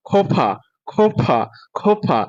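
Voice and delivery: "খোফা" ending on an open a, no r. Shown as a demonstration. Teacher drills "খোফা" for students, ending in open a. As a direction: say "খোফা" with a clear final a. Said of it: "আমরা আ উচ্চারণ করব".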